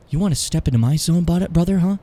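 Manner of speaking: loud, high wrestling trash talk growing to a shout; wrestler promo. Acted. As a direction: cut a promo like a pro wrestler, brother. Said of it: "Nice Hulk Hogan impression".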